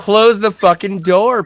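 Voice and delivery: high, loud and drawn-out mock outrage; indignant demand. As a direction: act out a slow, loud telling-off. Acted quote of annoyed demand.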